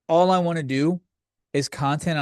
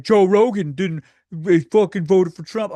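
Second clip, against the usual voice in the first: mock protest; 4 semitones higher, 6 dB louder than usual. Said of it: "a lot of people are like".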